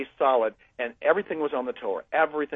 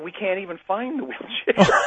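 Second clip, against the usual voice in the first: laughing through it; 5 semitones higher than usual. Real, not acted. Punchline of his miracle story.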